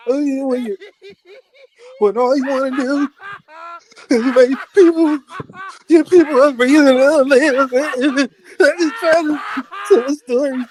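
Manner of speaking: exasperated pleading. Real, not acted. Exasperated complaint to Juan.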